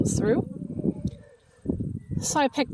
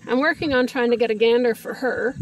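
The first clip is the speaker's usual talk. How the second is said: on a bumpy road. Real, not acted. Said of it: "Sorry for the bumpy ride".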